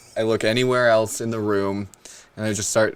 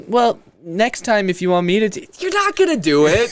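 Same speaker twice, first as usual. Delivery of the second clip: high-pitched mock partner voice, rising higher; imitated partner; 9 semitones higher, 3 dB louder than usual. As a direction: mimic a partner's complaint, pitch climbing. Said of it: "'cause they're like".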